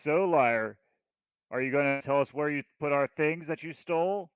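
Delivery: a touch of bold accusation; accusing confrontation. Acted. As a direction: confront the liar in front of everyone. Player confronts prisoner in character.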